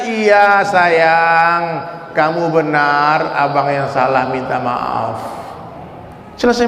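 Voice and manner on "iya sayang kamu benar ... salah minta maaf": tender husband's apology. Shown as a demonstration.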